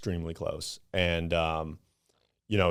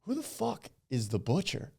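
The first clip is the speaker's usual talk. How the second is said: high, laughing question; laughing disbelief; 10 semitones higher, 4 dB quieter than usual. Retold or imitated. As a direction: ask it half laughing. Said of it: "I'm like".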